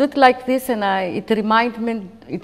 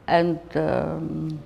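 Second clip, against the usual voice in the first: hard voice; 4 semitones lower, slower than usual. Retold or imitated. Officer ordering soldiers, in a hard stern voice. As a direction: bark it like a harsh officer giving orders. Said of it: "in very hard voice".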